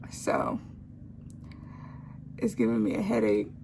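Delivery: slow, thick-tongued speech; lisping around a swollen tongue. Real, not acted. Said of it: "my tongue is fat as hell".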